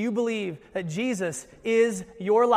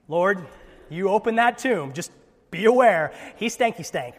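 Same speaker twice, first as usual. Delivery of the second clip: mock Martha warning; 5 dB louder than usual. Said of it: "says it like this".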